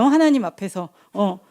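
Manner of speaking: ordinary talk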